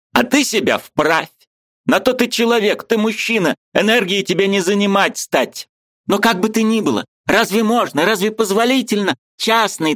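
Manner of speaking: high, eager voice of a Ukrainian friend; lively high-pitched friend arguing; Mikhalevich's voice. A narrator's reading. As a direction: play the excitable friend up high. Mikhalevich exhorting.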